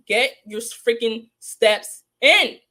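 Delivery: slow, loud, drawn-out "Get your freaking steps in"; mocking order. Real, not acted. Host taunting Pig Snake, slow and loud. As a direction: stretch each word out to rub it in.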